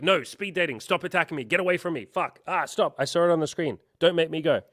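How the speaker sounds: high, loud, frantic mock protest; mock panicked defensiveness. Mocking himself to his viewers, high loud frantic protest. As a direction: shriek it like you're under attack. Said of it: "We're like".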